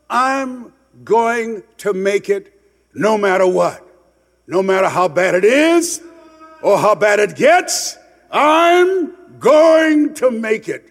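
builds from steady resolve to a high, loud, slow cry; rising vow. Pretend. Speaker telling the crowd his inner vow, building to a shout. Vowing to never give up.

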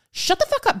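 sudden high-pitched exasperated retort; mock outburst. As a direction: cut off a patronizing know-it-all. Snaps back at the condescending parent.

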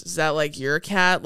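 lightly deadpan, unconcerned question; imitated monotone. Host imitates boy asking crying girl about cat, mildly monotone. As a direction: ask it low-key, as if indifferent. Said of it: "his just completely monotone disposition".

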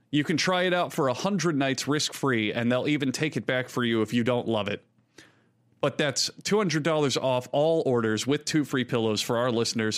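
smooth upbeat ad read; sponsor ad read. Acted. Host reads the Helix mattress ad, smooth and upbeat. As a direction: sell the mattress warmly to listeners.

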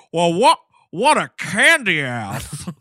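slow, loud, sneering; mock the idea with disdain; scornful jock. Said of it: "Billy's response is".

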